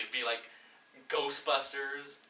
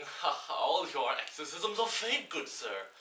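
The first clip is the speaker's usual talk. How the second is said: mock posh accent; 2 semitones higher than usual. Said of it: "He didn't use that accent".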